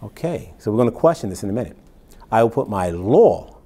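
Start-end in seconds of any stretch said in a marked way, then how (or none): 2.3-3.6 law stressed, slow and falling. Shown as a demonstration. Preacher contrasts the singular with the plural, slow stress on law. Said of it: "hang on, singular".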